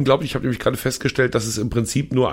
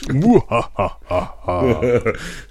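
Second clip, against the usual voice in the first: diabolical laugh. Pretend. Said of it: "Diabolisches Lachen und solche Sachen".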